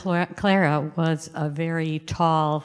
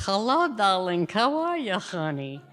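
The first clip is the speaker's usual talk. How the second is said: put-on grandma's old-country accent; 3 semitones higher than usual. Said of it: "she would talk like this".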